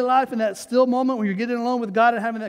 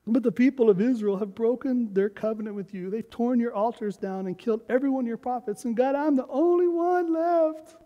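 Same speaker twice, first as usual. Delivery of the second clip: self-pitying Elijah; 4 dB quieter than usual. Acted. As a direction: read it like a sulking pity party. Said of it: "He's having a pity party".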